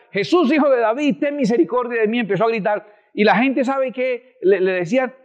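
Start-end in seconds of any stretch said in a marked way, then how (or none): 0.1-2.2 retold cry. Preacher voices blind beggar calling to Jesus, mild retold cry. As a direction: imitate a pleading call without really shouting.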